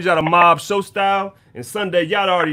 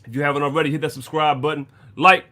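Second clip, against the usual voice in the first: talking around ice in the mouth; mouth full; 2 semitones lower than usual. Real, not acted. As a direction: speak with ice in your mouth. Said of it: "I got ice in my mouth".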